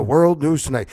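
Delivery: mocking a TV anchor. Mocking the news anchor's nightly opener, booming. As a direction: announce it like an evening newscast. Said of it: "he sits there like this and goes".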